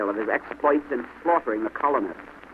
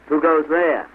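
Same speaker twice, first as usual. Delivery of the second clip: louder, higher challenge; sentry's hail; 4 semitones higher, 5 dB louder, slower than usual. A narrator's reading. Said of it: "was hailed by the British sentinel".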